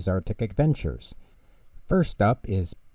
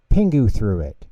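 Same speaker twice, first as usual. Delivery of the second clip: tattling accusation; 7 dB louder than usual. Acted. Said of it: "he said".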